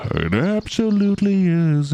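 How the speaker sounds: high, loud, theatrical yes; gushing reply. Real, not acted. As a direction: answer yourself like a thrilled fan. Answering own question enthusiastically.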